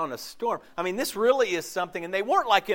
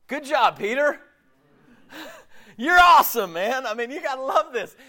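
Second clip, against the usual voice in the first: higher, hammed-up cheerful praise; mock praising Jesus; 10 semitones higher, 7 dB louder than usual. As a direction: gush like a proud coach, half joking. Imagining Jesus praising Peter.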